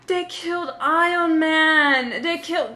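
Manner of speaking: put-on high, drawn-out child's wail; gasp, then wail it like an upset kid; imitating a small girl's dismayed cry; distraught little girl. Retold little girl's cry at cinema.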